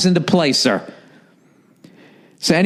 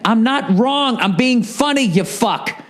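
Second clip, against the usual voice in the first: higher, heated denial, then a muttered insult; indignant retort; 6 semitones higher, slower than usual. Real, not acted. Host retorting to the listener's email, exasperated and heated. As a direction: defend yourself, exasperated.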